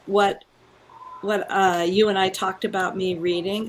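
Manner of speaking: hollow echoing tube sound; like speaking inside a tube; through a tube. Real, not acted. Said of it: "it sounds like I'm in a tube".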